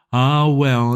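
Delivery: put-on a teary old peer letting go; old lord sighing. A narrator's reading. Old lord after wiping his eyes, wistful sigh.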